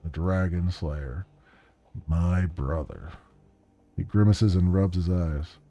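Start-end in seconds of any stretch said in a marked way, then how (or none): 0.0-3.1 weary whiskey drinker. Acted. Plays late client recalling brother.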